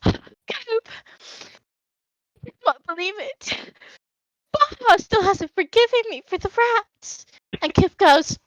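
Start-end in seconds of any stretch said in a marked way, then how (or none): 0.0-7.2 higher, pleading little gnome; high Hoshi voice. Acted. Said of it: "Hoshi goes".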